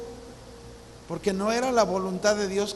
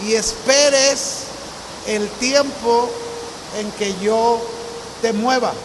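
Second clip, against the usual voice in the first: building steadily louder, slowing on the key words; firm divine command; 3 dB louder than usual. Retold or imitated. God firmly telling the young man to return, growing louder. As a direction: lay down God's will with growing weight, word by word. God's answer voiced in testimony.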